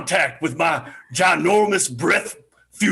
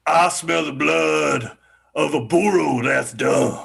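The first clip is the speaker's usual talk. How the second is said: giant voice; 3 semitones lower, slower than usual. Acted. Giant's opening chant.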